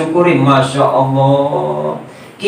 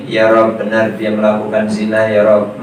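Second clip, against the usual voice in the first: humble witness answer; 4 semitones lower than usual. Acted. Genitals confess before God. (suara saksi yang rendah dan pelan)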